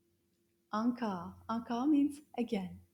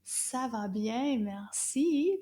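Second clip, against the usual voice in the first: said slowly and clearly; slow model answer; slower than usual. Shown as a demonstration. Teacher models the reply to her class, slowly. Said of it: "I'm going to answer".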